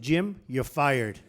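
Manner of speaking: drawn-out, emphatic "Jim, you're fired."; slow, deliberate firing. Retold or imitated. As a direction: lay down the final verdict slowly. Retold firing the agent.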